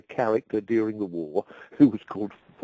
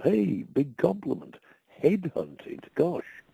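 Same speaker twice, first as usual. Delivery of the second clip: pleased surprise; 8 semitones higher, slower than usual. Retold or imitated. Retold thought, flattered.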